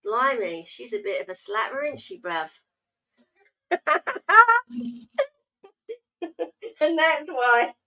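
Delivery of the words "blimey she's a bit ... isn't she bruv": mock Cockney bloke. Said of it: "Never call a girl a chick".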